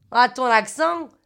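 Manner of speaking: put-on stretched-out Marseille accent; imitated Marseille accent. Man from Marseille answering.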